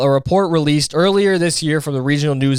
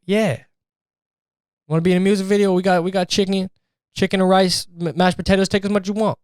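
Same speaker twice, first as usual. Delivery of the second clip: higher, eager hosting voice; friendly rapper, pitched up; 6 semitones higher than usual. Retold or imitated. Rapper invites freed inmate to eat, higher and eager. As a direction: sell the cookout like a generous host. Rapper offers cookout food.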